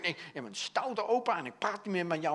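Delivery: mildly cross imitated child; angry grandchild. Grandchild refuses to talk to naughty grandpa, mock angry. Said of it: "dus dan zijn ze echt boos".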